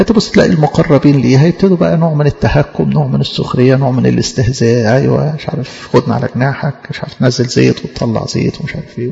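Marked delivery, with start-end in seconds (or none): 5.0-9.1 sneering mockery of the scoffers; mocking taunt. Mocking the believer with a sneer. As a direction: imitate the mocking relatives. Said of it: "آه كلام تريقة".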